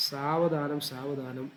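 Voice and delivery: drawn-out സാവധാനം സാവധാനം, each word stretched long; slow it right down for the student; slowly, word by word. Shown as a demonstration. Teacher showing slow, word-by-word memorising. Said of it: "നിർത്തി നിർത്തി word by word ആയിട്ട് പഠിക്കുക".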